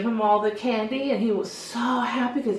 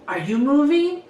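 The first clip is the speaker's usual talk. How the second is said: higher-pitched mock challenge; teasing; 5 semitones higher, 3 dB louder than usual. Hairdresser messing with a kid in the chair, teasing. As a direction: tease the kid with a raised, questioning voice. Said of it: "just to tease them".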